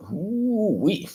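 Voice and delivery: excited. Real, not acted. Reacting to four-hour streams.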